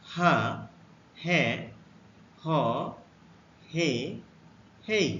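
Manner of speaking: হা, হে, হ, হে, হেই said one by one, slow and clear; teacher modelling হা হে হ হে হেই; letter sounds demo. Shown as a demonstration. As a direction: model হা হে হ হে হেই with a pause after each. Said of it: "এইচ এর জন্য".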